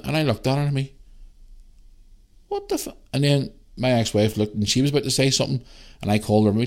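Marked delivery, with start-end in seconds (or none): 2.5-2.9 shocked. Retold or imitated. Shocked reaction at the woman.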